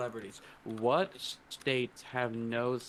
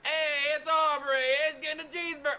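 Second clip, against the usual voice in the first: much higher, bright greeting of a regular; high excited staff voice; 12 semitones higher, 4 dB louder than usual. Retold or imitated. Wendy's staff greeting the brother with a much higher excited call. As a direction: sing out the regular's name like a cheery cashier.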